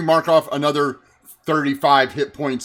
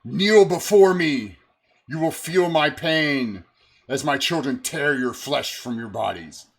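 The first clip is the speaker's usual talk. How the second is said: cold rasping evil emperor. Acted. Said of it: "and are like".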